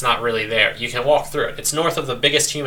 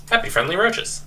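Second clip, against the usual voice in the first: mock cheery; 10 semitones higher than usual. Repeats phrase in higher voice.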